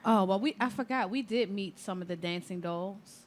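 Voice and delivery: ordinary delivery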